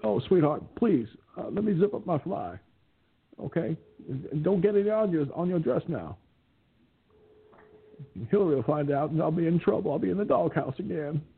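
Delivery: lightly raspy Clinton, sheepish and pleading; a hint of Clinton begging not to get caught; mild raspy Clinton voice, coaxing his lover; Bill Clinton impression. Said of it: "there's Bill Clinton".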